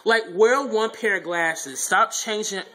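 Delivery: fed-up calling out; exasperated. Real, not acted. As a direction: stretch the words out in loud disbelief. Griping at Alex's noise and glasses.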